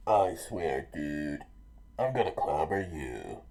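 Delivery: low, loud growled threat; hero's heated threat; threatening. Acted. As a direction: vow it hard and low. Luffy threatens Buggy in story.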